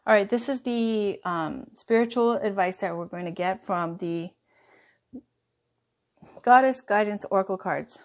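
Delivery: talking through hiccups; little hiccup catches in the breath. Real, not acted. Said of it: "I'm getting the hiccups".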